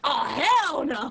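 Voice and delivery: drawn-out "hell" in mock Black American style; imitated Black American style. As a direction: stretch "hell" in a playful Black American impression. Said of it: "Matt would be like".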